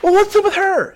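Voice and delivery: high, mock-snooty gossip voice; catty church gossip. Churchgoer gossiping about a woman at the altar, high and snooty. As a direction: sneer it high like a nosy churchgoer. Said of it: "They're like".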